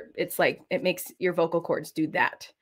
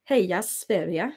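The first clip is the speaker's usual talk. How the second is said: cheering in a Swedish accent; a Swedish fan chanting. Shown as a demonstration.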